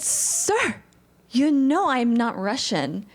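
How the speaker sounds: high-pitched Sir, then slow and pointed; imitating own slow, emphatic objection; retold protest. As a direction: spell it out slowly to the director, exasperated. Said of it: "And I said".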